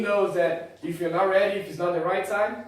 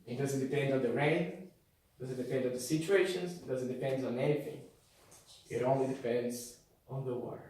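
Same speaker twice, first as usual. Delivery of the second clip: hushed preaching; 3 semitones lower than usual. Acted. Low intimate preaching.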